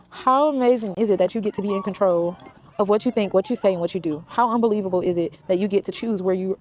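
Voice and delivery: brisk, pressing read-aloud of the book's words. Acted. Vlogger reading her favourite book passage to followers, quick and urgent.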